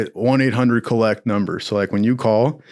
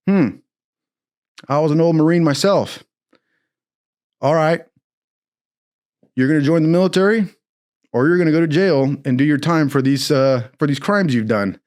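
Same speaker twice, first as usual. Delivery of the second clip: lightly voiced old judge; 4 semitones higher than usual. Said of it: "He goes".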